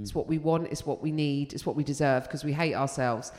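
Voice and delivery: lightly voiced glum British punter; resigned, expecting the worst; mock British gloom. British audience member, grim resignation. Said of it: "British people go in going".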